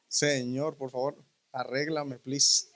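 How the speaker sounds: low, soft mock prayer; mock plea. Preacher joking to the Lord about his accent, low mock plea. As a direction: murmur a joking aside to God.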